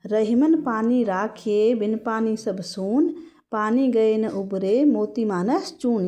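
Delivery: slow, measured couplet reading; verse recitation. Acted. Teacher reciting Rahim's couplet to explain a pun, slow recitation. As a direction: recite the doha slowly, line by line.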